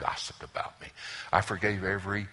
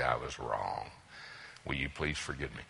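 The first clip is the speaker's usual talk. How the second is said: low and soft, gentle; soft apology; 7 semitones lower, 8 dB quieter than usual. Shown as a demonstration. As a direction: say it gently, almost under breath. Softly modeling the apology.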